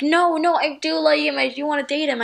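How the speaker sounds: high, flustered insistence; flustered protest. Retold or imitated. Girl insisting to her friend she likes him, flustered.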